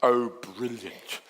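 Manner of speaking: slow, dry sarcastic praise. Retold or imitated. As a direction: say it like you mean the opposite. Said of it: "sarcastic internal dialogue".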